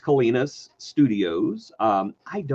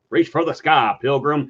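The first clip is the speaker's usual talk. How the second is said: lightly voiced robot cowboy; RoboCop; 2 semitones higher, 3 dB louder than usual. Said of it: "RoboCop's like".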